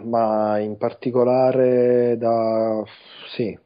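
talking with a mouthful of brioche; chewing while talking, muffled words; mouth full. Real, not acted. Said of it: "stavo mangiando un Kinder Brioche".

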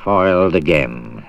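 grumbling villain. Acted. Crocodile missing its meal, slow sulky grumble. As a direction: sulk like a thwarted villain.

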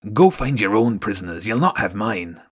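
a rat soldier claiming his tunnel; menacing rat guard. Acted. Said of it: "The rat went on".

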